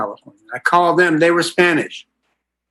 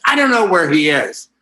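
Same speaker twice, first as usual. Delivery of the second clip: grudging excuse; 4 semitones higher than usual. Retold or imitated. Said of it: "this is how cooperative I can be sometimes".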